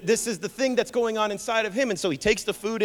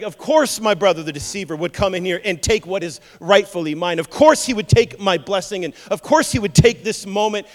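indignant, raised-voice acted complaint; angry, fed up; 7 dB louder than usual. Esau raging about his deceiving brother, fed up. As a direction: fume with bitter emphasis on each charge. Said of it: "he gets so angry and so fed up".

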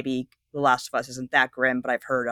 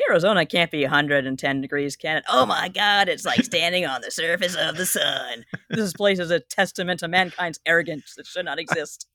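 quoted cartoon bit; 3 semitones higher than usual. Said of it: "One of my favorite bits".

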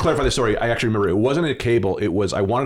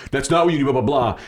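snippy clerk; 3 semitones higher than usual. Retold or imitated. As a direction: imitate a curt brush-off. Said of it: "the guy was so shitty about it".

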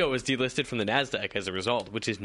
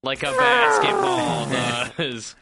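mock deflating voice; 11 semitones higher, 6 dB louder, much slower than usual.

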